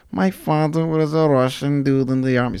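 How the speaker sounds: put-on mild leftover Russian accent; trailing off the joke bit. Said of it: "Sorry, nah, let me stop".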